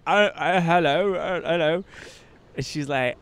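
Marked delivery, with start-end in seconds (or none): 0.1-1.8 lightly imitated British hello; hesitant greeting in a light British accent. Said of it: "British, she's like".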